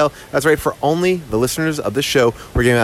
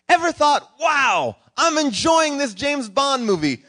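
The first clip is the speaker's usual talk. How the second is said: movie trailer announcer; 9 semitones higher than usual. Pretend. Mock movie trailer promo.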